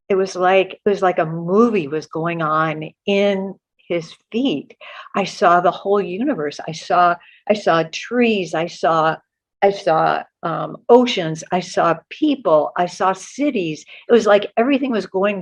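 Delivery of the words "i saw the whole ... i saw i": hushed, breathless whisper; whispering in wonder; awed whisper. Retold or imitated. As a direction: whisper it as if seeing everything at once. Awed vision of the universe.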